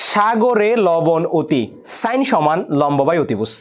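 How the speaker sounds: very slow, measured chant-like recital; slow mnemonic recitation. Shown as a demonstration. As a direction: spell out rhyme and formula slowly for students. ছড়া ও সূত্র মিলিয়ে আবৃত্তি. (ধীরে ধীরে টেনে সূত্র আবৃত্তি)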